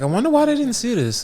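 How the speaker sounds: high, light puzzled musing; puzzled wonder. Retold or imitated. Recapping the hero puzzling over the screen, high. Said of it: "He's like".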